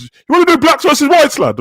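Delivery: high, mocking lad voice; mock racist lad. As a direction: put on a high taunting lad. Racist team voiced in story.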